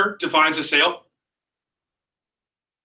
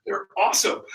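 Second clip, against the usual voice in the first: very high, soft squeal; giddy I-told-you-so; 13 semitones higher, 5 dB quieter than usual. Retold or imitated. New rep repeating the win to mom, giddy. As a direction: squeak with delighted vindication.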